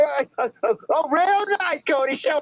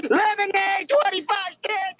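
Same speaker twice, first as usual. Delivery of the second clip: drawn-out hawker cry, a bit higher; street vendor call; 6 semitones higher, slower than usual. Acted. Kid hawking lemonade to passers-by, slow sing-song call. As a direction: call out the price slowly like a street seller.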